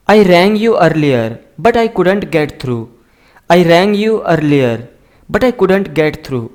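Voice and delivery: slow, careful dictation of each word; slow model reading. Shown as a demonstration. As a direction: read it out slowly for learners to copy. Teacher slowly models English sentences. (धीमी, साफ़ पढ़ाने वाली आवाज़)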